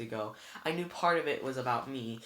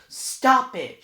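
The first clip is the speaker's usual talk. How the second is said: much higher and louder cry; shouting; 11 semitones higher, 14 dB louder than usual. A narrator's reading. Annabeth stopping Luke's taunts, shouting. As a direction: scream him down. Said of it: "she shouted".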